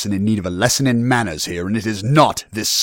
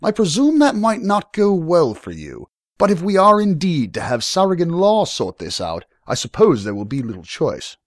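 measured threat in a raised voice; ominous lord, higher and louder; calm, ominous; 7 semitones higher, 5 dB louder than usual. A narrator's reading. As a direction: deliver a veiled threat with lordly control. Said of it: "said in a calm, ominous voice".

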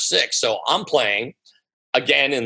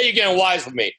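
put-on old school Italian; 7 semitones higher, faster than usual. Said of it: "old school Italian".

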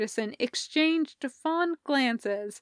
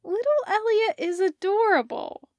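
Parker's voice; 10 semitones higher, 4 dB louder than usual. Acted. Parker names the crab.

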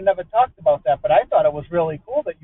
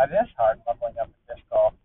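silly put-on voice; 8 semitones lower, 6 dB quieter than usual. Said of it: "we're set up to talk like this".

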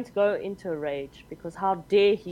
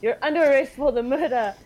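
louder, booming arrest; 3 semitones higher, 4 dB louder than usual. Acted. Arresting the advocate for murder, booming. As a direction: boom the charge at him. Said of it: "use my booming voice".

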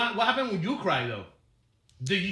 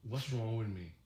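inner thought; 9 semitones lower, 10 dB quieter, much slower than usual. Retold or imitated. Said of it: "but I'm like".

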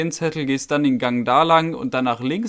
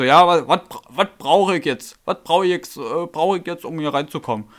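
pampig nachgeäfft, berlinernd; patziger Kunde. Retold or imitated. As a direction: frech und schnoddrig, wie ein unwilliger Kunde. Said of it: "richtig patzig an und meint so". (Kunde fragt patzig, was er braucht, schnoddrig nachgemacht)

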